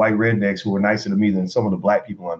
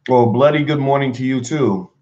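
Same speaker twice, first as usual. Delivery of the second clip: mock British accent, a little higher; bad British accent; 4 semitones higher than usual. Vlogger greeting a British viewer back, in a mock British accent. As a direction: put on an amateur British accent. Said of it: "I don't have a British accent".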